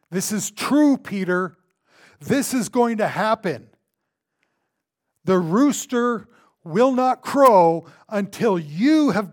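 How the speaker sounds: loud, high, weighty prophecy; emphatic pronouncement. Acted. Jesus warning Peter of his denial, emphatic and loud. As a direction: declare it forcefully, hitting each phrase.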